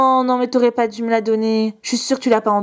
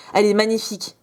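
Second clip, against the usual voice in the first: ordinary talk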